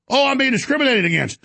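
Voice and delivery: mock complaint.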